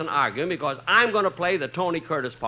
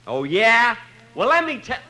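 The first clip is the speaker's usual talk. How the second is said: louder, higher mock indignation; indignant retort; 6 semitones higher, 6 dB louder than usual. Jack snapping back at Tony, mock indignant. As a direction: bristle back at the insult. Jack bristles at Tony's remark.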